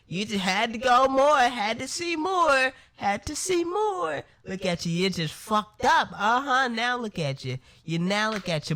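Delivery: loud mocking scold at her own reflection; self-scolding. Talking to herself in the mirror, a loud mocking scold. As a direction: tear into yourself in the mirror, jeering.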